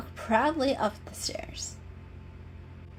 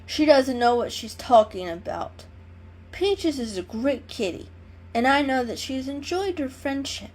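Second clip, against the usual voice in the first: proud tomcat voice; 4 semitones higher, 3 dB louder than usual. Acted. Mister Fluffles voice.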